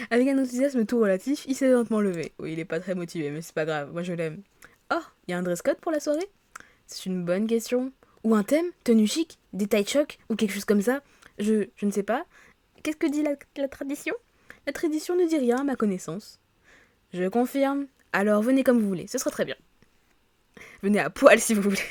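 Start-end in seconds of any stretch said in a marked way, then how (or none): 0.1-2.3 animated read-aloud narration; story narration. Acted. Player narrating a colleague's reluctant move, animated story reading. 4.9-21.8 lively read-aloud of story dialogue; reading game dialogue aloud. Acted. Office colleagues agreeing on the park for welcome drinks, animated read-aloud.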